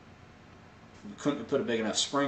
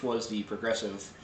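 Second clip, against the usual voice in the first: normal talking voice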